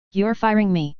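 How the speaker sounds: mild choked bleat of alarm; understated frightened bleat; choked, terrified. A narrator's reading. Jaraz fearing Gavin will fire him, choked and terrified. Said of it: "bleated in a choked, terrified voice".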